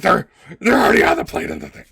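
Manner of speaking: fast, high, loud outburst; exasperated yell. Acted. Stepmother snapping back about the eggs, yelling.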